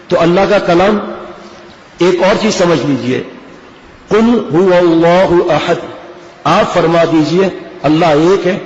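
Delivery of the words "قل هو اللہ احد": measured Arabic with a clear back qaf in قل; correct qaf. Shown as a demonstration. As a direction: recite slowly, قل with q from back of throat. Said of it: "یہ قاف یہاں سے ادا ہوا".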